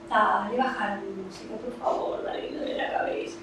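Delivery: soft, feeble parental begging; pleading. Acted. Parent begging for the music down for a headache, pleading. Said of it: "dar órdenes y suplicar".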